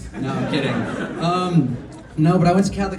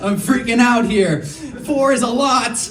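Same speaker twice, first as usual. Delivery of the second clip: excited, high; 6 semitones higher, slower than usual. Real, not acted. Excitedly explaining Jake's rank.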